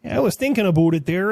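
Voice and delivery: "about it there" redone in a light Canadian accent; Canadian accent fixed. Shown as a demonstration. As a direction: redo the line, accent back on. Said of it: "fucked up that part of the accent".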